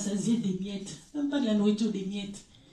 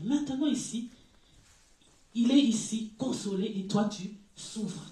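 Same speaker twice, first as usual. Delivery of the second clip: lecture biblique. Acted. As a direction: read the verse with weight. Reading scripture aloud. (lecture posée d'un verset)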